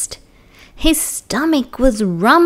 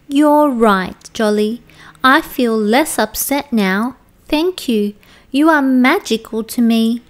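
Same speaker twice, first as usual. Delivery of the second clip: cheered-up okapi; 2 semitones higher than usual. Acted. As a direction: lift the okapi's spirits.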